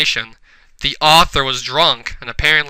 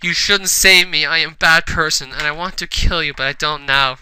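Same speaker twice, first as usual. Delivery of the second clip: wept. Acted. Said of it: "Remilia wept".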